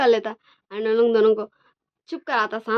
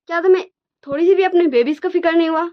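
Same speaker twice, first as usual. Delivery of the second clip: pleading reproach; 6 semitones higher, 5 dB louder, faster than usual. Acted. Wing pleads about crying babies.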